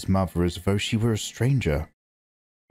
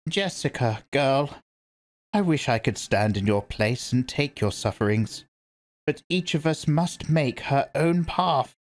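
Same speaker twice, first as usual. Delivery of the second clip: put-on a gentler, tender old woman's voice; mild tenderness from a stern elder; softened; 6 semitones higher than usual. A narrator's reading. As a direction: soothe her like a fond grandmother. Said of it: "The old woman's voice softened".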